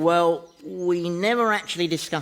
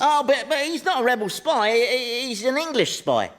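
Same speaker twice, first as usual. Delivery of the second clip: higher-pitched, stammering plea; flustered protest; 7 semitones higher than usual. Acted. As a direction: scramble to talk him out of it. Pleads against companion's arrest.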